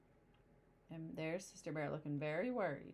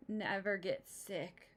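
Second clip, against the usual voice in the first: slow bragging; slower than usual. Acted. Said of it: "bragged Papa".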